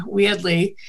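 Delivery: "weirdly" with a Boston dropped R; Boston accent. Shown as a demonstration. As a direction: say "weirdly" as "wee-udly", Boston-style. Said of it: "other words we say really weirdly".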